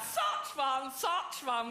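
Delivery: posh catchphrase through a fixed grin; rictus grin. Retold or imitated. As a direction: repeat it with forced posh jollity. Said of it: "with a rictus grin".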